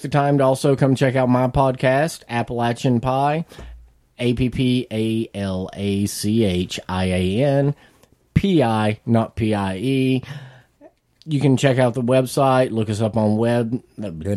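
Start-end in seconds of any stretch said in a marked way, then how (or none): 4.2-10.2 slow spelling out. Shown as a demonstration. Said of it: "spelling out".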